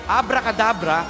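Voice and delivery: grand magician's incantation; magic word incantation. Acted.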